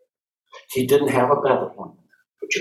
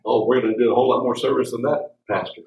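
mock churchgoer; 3 semitones lower, faster than usual. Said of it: "mock congregation member".

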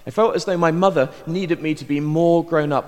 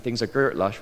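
Bristolian accent. Shown as a demonstration. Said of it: "when you speak Bristolian".

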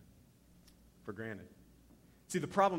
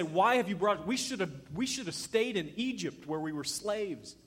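higher, louder imitated complaint; mock reproach; 5 semitones higher, 4 dB louder than usual. Israelites regretting leaving Egypt to Moses, mock reproachful. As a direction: complain like an aggrieved crowd.

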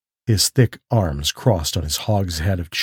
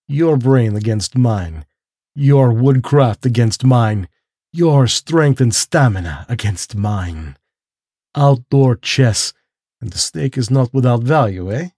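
lightly voiced general. The general sets out the hunt.

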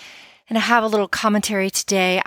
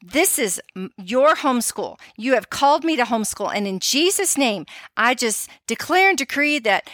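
prayer; 3 semitones higher than usual. Shown as a demonstration. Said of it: "you pray and you say".

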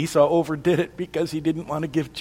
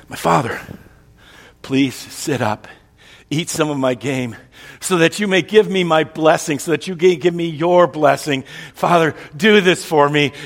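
eager plea; 3 semitones higher, 6 dB louder than usual. Acted. Esau pleading with father.

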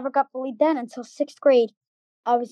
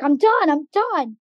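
slower, higher mock yell of exasperation; half-raised voice, drawing out each "done"; retold yell; 4 semitones higher, 4 dB louder, slower than usual. Bullied student fed up in the bathroom, retold yell. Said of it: "And I'm yelling".

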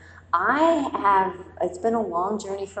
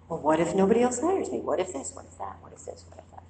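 fearful worrying; much faster than usual. Retold or imitated. Fearful what-if spiral.

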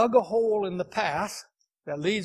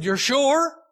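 high, louder doubting mother; mother's doubtful question; 7 semitones higher, 4 dB louder than usual. Retold or imitated. Mother doubting her son, a high pressing question.

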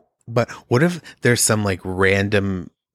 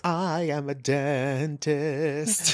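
slow, soft mock old dentist; 3 semitones higher, 7 dB quieter, much slower than usual. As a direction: drone like an ancient dentist.

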